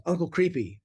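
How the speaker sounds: put-on a child teasing with a sudden high pitch; kid blurting out.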